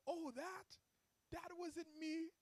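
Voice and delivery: put-on Jamaican accent. Relaxed Jamaican client brushing off the debt to his agent, attempted Jamaican accent. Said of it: "I can't do the accent".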